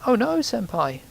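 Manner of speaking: high-pitched imitation of an anime girl noise; squeaky anime girl. Gamer mimicking the odd noise they just made, high-pitched and squeaky. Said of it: "high-pitched, squeaky, like".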